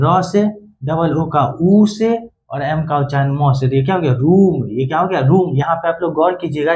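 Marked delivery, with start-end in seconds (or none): 4.1-4.7 रूम with a drawn-out long oo; रूम, vowel held a little longer. Shown as a demonstration. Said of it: "ऊ थोड़ा सा लंबा खींचा". 5.2-5.6 रूम with a slightly drawn-out oo; रूम said with a long vowel. Shown as a demonstration. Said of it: "ऊ थोड़ा सा लंबा खींचा".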